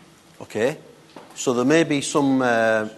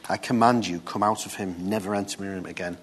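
softer, calm command, no shouting; quiet authority; 4 semitones lower, 5 dB quieter than usual. Shown as a demonstration. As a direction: command it firmly but quietly. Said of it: "He didn't shout, he didn't scream".

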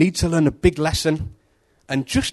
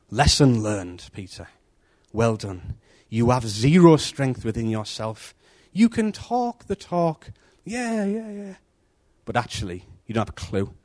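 lower, slow, gentle Jesus; gentle rebuke; 3 semitones lower, slower than usual. Acted. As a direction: tease him gently, low and slow. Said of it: "is what he's saying to Peter".

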